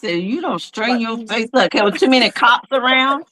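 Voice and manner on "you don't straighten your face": low stern mother warning. Retold or imitated. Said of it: "lip ball to talk to their child".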